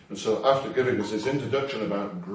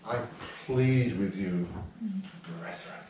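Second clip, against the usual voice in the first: pleading Paul; 5 dB quieter, slower than usual. Retold or imitated. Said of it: "He says".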